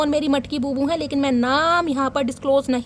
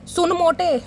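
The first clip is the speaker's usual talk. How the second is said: giggling through a cheeky taunt; laughing taunt; 3 semitones higher, slower than usual. Acted. Reader reads a cheeky message to viewers, laughing. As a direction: read it out, cracking up.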